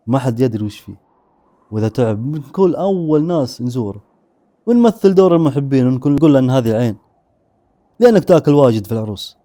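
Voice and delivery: lightly voiced scheming grandfather, coldly pleased; chilling coldness. Grandfather praising his grandson's crime, lightly cold menace. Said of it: "وقال ببرود مرعب".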